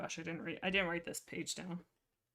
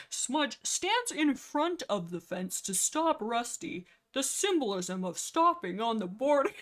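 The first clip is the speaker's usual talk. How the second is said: real giggles breaking into slow, higher reading; laughing while reading; 5 semitones higher, 4 dB louder, slower than usual. Real, not acted. Reading own note aloud to viewers, laughing. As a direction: read it out through laughter.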